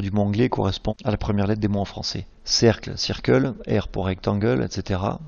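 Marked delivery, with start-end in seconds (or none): 3.0-3.5 "circle" in English with a heavy French accent. Real, not acted. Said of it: "excusez mon accent qui est pas terrible". 4.1-4.6 English "rectangle" with a French accent. Real, not acted. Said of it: "excusez mon accent qui est pas terrible".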